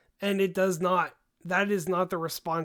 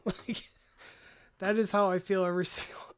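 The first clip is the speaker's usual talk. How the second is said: laughing whisper. Real, not acted. Laughing whisper after the joke.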